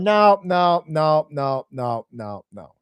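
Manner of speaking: dismissive interruption. Retold or imitated. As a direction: cut the pitch off, then tail away. Manager cuts off the pitch.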